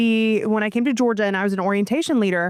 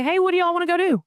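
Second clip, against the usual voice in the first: higher, quicker mock voice; mock Midwest friend; 9 semitones higher, faster than usual. Cohost imitating a Midwest question using y'all, higher and quick. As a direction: poke fun at y'all said up north. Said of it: "doesn't sound right being in the Midwest".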